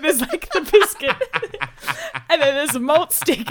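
high, weepy explanation breaking into laughter; mock sobbing. Sobbing caller describing TV snacks to vet receptionist, mock crying. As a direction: act out blubbering through the details. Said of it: "you're sobbing through a description of T V snacks".

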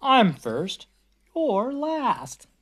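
a hint of a rude truck cutting in; pushy truck. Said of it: "grocery truck gave his horn a blast".

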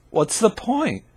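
ordinary talk

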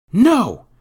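high, very loud refusal; defiant boy. A narrator's reading. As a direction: shout your refusal in a boy's high voice. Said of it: "Jacques would not be deterred".

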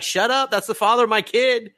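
high-pitched, indignant mock retort; hammed-up defensive mother; Toka impression. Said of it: "She's like".

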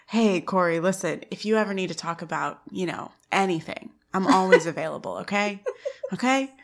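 soft, imitated tactful reassurance; awkward concern. Teacher offering to talk with embarrassed student, awkward concern. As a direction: gently offer support, treading carefully.

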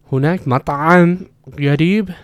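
mock a student forcing the ayn in "مطعم"; over-enunciated ayn. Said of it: "he says it again".

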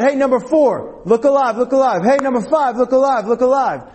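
high, insistent sideline shout; imitating a coach's yell. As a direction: holler at the players to wake up. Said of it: "she yelled out".

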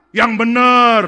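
high, loud, slow badgering; pushy shout. Two pastors pressing the third to confess, loud high badgering. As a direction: drag the confession out of him.

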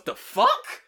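very high, loud squeal; mock shocked girlfriend. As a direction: shriek it as a baffled girlfriend. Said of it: "And she goes".

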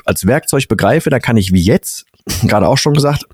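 talking through a stuffed-up nose; blocked nose. Real, not acted. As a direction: sounds like a cold with a blocked nose. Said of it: "boah, meine Nase ist zu". (verstopfte Nase)

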